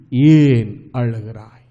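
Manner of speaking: a lightly voiced angel, slow and deep; hushed angel voice. Cherubim turning to Mary. (மெதுவான தாழ்ந்த தூதன் குரல்)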